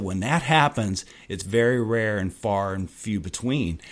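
slow, emphatic professor's counsel; retold solemn urging; earnest advice. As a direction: press each word home, slowly. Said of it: "grabbed me by the shoulder and pointed his finger".

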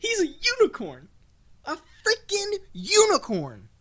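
ecstatic shout. Acted. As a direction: proclaim it like a miracle. Ecstatic reveal of unicorn.

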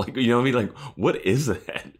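high, giggly disbelief; laughing. Real, not acted. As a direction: laugh through the question. Laughing at the weird scene.

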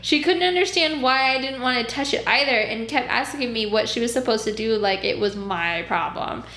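escalating comedy rant. Real, not acted. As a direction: rant in growing disbelief. Escalating outrage at clients.

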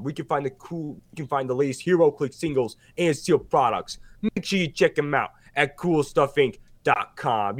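ho-ho into the sponsor plug like Santa; mock Santa. Host plugging the sponsor as a lightly voiced Santa.

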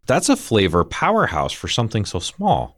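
talking with a mouthful; mouth full. Real, not acted. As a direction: chew and talk at once. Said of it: "I'm gonna talk with my mouth full on the radio".

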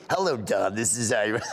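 lightly voiced old Boca lady; a hint of little-old-lady caller; Iris. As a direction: greet the host as an elderly regular. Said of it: "I would call every week".

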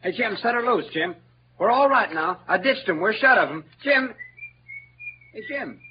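high, loud calls across the river; calling out. Acted. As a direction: shout for your friend in the dark.

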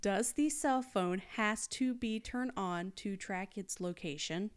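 slow, deliberate reading of "has to be turned on"; careful retake. Shown as a demonstration. Host rereads the suspect's rough search, careful retake. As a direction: read "Does the cell phone has" slowly, word by word. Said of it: "Let me do that again".

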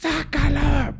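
high, drawn-out mock shout; imitated distant yell. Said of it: "a mí empezó a gritar Marín desde el, desde el balcón". (grito lejano imitado, agudo y alargado)

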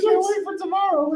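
Borat voice. Retold or imitated. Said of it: "He's like".

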